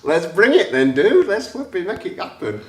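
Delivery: eager mock rallying cry; fired-up reply. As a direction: hype yourself up, "let's go". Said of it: "And I was going".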